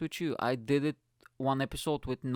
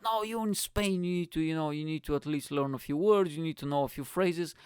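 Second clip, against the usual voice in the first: mildly cross, slightly raised retelling; mad friend scolding; 3 semitones higher than usual. Retold or imitated. Friend scolding him for refusing Spanish, mock cross. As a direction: imitate an exasperated telling-off. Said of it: "she got really mad".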